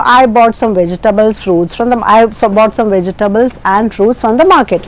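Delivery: even statement, dropping on MARKET; falling intonation. Shown as a demonstration. Teacher demonstrating a normal statement, pitch falling on MARKET. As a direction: tell it plainly, letting MARKET fall. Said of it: "Now the falling intonation".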